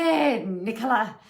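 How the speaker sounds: grandmother's English accent on "Hey, Nicola", slowed and lightly voiced; a gentle hint of an English granny calling "Hey, Nicola". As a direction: say "Nicola" the way an English nana does, unhurried. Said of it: "is how she says it".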